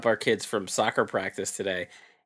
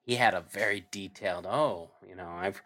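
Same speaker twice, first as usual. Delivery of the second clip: retold excuse; 4 semitones lower, 4 dB quieter than usual. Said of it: "He's like".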